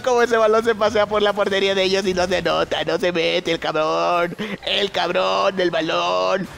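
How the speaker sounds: slowing, stretched-out wail of disbelief. Real, not acted. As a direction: drag the words out in dismay. Laments the missed goal.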